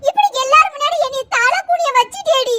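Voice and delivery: crying out through tears; half-shouted sob of disgrace; mother wailing at her daughter; wailing in shame. Acted.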